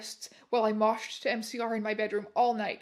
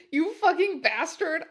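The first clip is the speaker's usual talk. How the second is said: higher and louder, spitting the curse; angry outburst; 5 semitones higher, 5 dB louder than usual.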